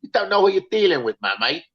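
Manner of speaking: mock London geezer voice in Cockney; Cockney accent. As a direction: play a tough Cockney geezer threatening a stranger. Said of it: "With a Cockney accent".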